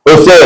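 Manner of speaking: "Jose" with a Spanish h sound, ho-SE; Spanish pronunciation. Shown as a demonstration. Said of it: "What we have is Jose".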